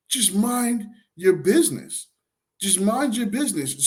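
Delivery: will them to drop it, drawn out; exasperated plea. Retold or imitated. His exasperated thought at woman.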